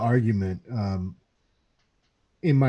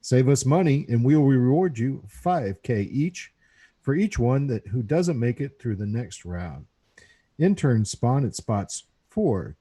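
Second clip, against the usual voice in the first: booming fighting game announcer; radio announcer voice. Acted. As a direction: announce it like a game show host. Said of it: "I have to talk like this now".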